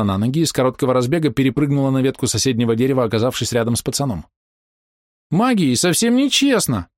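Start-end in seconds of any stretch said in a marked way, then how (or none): 5.3-6.9 put-on high, slow, squeaky hurt little girl; squeaky offended voice. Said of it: "обиженно писклявым голосом заявила она".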